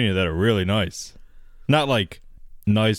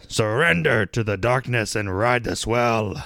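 ad read; slower than usual. Acted. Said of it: "I had to go a little pirate there".

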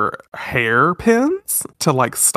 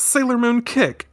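much higher shouted attack call; battle cry; 11 semitones higher than usual. Retold or imitated. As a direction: call out the kick like an anime heroine. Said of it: "she says".

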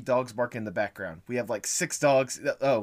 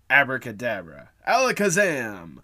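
put-on kids party magician; 5 dB louder than usual. Podcast intro magic words.

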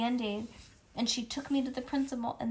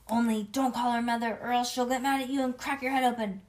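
mock scary warning voice; 4 semitones higher, 5 dB louder than usual. A narrator's reading. Child's fake warning voice.

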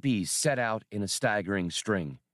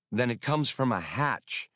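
ordinary delivery

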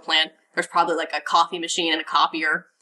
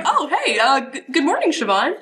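put-on eager young ranger; 8 semitones higher than usual. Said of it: "I think it'd be like".

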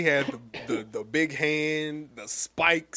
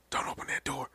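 breathy whisper with no voice; whispered warning; 7 dB quieter than usual. Retold or imitated. The symbiote warning Eddie in a whisper. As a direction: hiss the warning. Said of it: "he was like".

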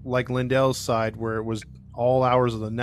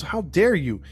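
higher, mildly affronted mock reproach; retold outrage, pitched up; indignant; 5 semitones higher than usual. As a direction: act the offended neighbor lightly. Retold neighbor's indignant confrontation.

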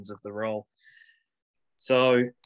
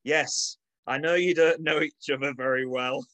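put-on Manchester accent; 5 semitones higher than usual. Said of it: "in my best Manchester accent".

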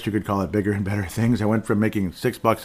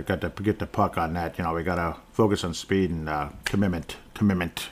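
put-on light Boston accent, softer, coach-speak cadence; Boston accent impression; 4 semitones lower, 4 dB quieter than usual. Podcaster lightly imitates the coach in a Boston accent. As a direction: mimic a Boston coach's press clichés, understated. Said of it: "imitating him with Boston accents".

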